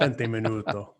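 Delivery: lightly put-on Italian accent; Italian-accented, offered as a quick demonstration. Shown as a demonstration. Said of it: "I said it in Spanish with an Italian accent".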